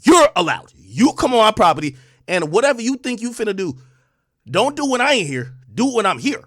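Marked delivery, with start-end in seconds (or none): 0.0-2.0 daring him to come to the house, loud and heated; heated challenge. Real, not acted. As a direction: throw down the challenge loudly.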